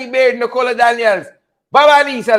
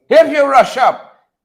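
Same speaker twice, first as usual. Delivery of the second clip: Sherman voice. Retold or imitated. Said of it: "In my Sherman voice".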